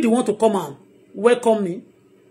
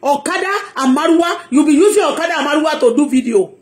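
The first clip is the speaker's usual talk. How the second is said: mock taunt; 3 semitones higher than usual. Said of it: "that pastor said".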